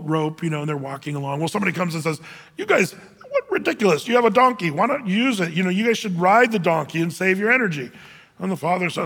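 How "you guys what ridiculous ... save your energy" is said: mock the silly travellers from the roadside; scoffing passerby. Passerby scolding father and son.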